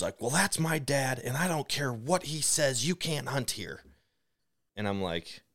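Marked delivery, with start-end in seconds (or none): 0.2-3.8 higher-pitched mock indignation; imitated angry woman. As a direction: mimic her objecting in a raised pitch. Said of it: "and she's freaking out".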